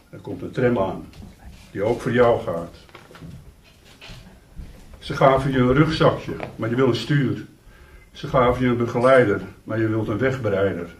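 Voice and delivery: measured poetry reading with long pauses after lines; poem recitation. Acted.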